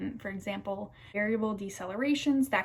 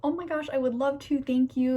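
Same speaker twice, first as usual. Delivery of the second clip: thrilled; 4 semitones higher, 4 dB louder than usual. Retold or imitated. Retelling her own thrilled reply.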